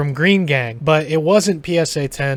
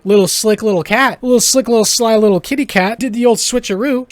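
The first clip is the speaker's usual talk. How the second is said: mock teasing; 5 semitones higher, 4 dB louder than usual. Mock-teasing the sly dragon's trick.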